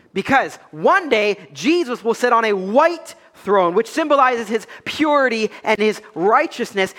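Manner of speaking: slow, weighty sermon proclamation; measured pulpit declaration; emphatic preaching. Acted. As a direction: proclaim it deliberately, leaning on key words. Preaches on coming judgment.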